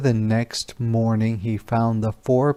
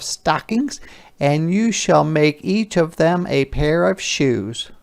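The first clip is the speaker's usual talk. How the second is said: higher, gentle wife's voice; shoemaker's wife; 5 semitones higher, slower than usual. Acted. Wife telling her husband they should thank the elves, higher kindly voice. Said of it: "She smiled".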